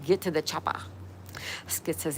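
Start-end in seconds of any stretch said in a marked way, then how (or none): 0.1-0.8 lightly imitated action-hero accent; a half-hearted take on a famous movie line; Arnold Schwarzenegger. Streamer quoting the chopper line for chat, light Arnold Schwarzenegger impression. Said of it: "Arnold Schwarzenegger voice".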